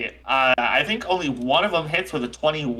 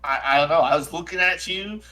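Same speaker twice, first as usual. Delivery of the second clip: lightly voiced shaken, aggrieved character; a touch of wounded indignation; Jack O'Toole. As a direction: mildly reproach a friend who scared you. Game master voices Jack O'Toole.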